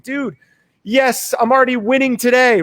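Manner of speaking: coffee fan gloating past the queue; smug glee. Retold or imitated. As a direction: crow about beating the line.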